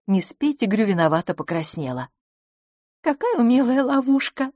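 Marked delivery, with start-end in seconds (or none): 3.0-4.5 высокий игривый упрёк; пожурить подругу; шутливый укор. A narrator's reading. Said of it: "укорила её мисс Лафос". (шутливо укоряя)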